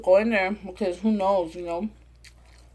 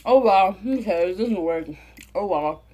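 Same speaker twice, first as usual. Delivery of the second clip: fake nonchalance. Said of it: "He tried to act like".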